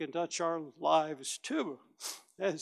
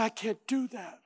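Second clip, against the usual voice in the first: softer, timid refusal; a hint of someone backing away; shrinking back; 6 semitones higher, 3 dB quieter than usual. Believer shying from witnessing, timidly. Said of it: "we sometimes shrink back and say".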